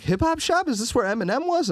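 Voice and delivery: high-pitched, hammed-up European tourist accent; mock a lost European fan with a bad European accent; terrible European accent. Retelling a European visitor at the shop, in a bad European accent. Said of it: "That's a terrible European accent".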